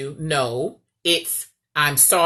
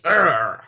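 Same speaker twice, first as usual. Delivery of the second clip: frustrated groan; 2 semitones lower, 5 dB louder than usual. Retold or imitated. Wife riles husband up, his mock annoyed groan. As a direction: grunt as if riled up. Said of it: "get him like".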